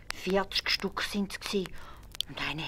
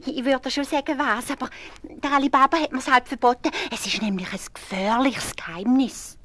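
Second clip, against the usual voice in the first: greedy wife; 8 semitones higher, 7 dB louder than usual. A narrator's reading. Wife alone with the gold, high gloating voice. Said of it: "und hat gesagt".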